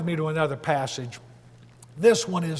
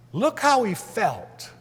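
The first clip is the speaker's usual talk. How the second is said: "felt" drawn out with a high fall; stress on felt; 4 semitones higher, slower than usual. Real, not acted. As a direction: slowly, lean hard on "felt". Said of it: "I'm emphasizing this".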